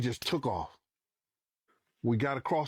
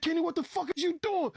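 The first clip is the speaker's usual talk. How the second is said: very high-pitched, urgent protest; retold alarmed challenge; faster than usual. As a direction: reenact yelping at the driver mid-chaos. Retold alarm as car speeds off.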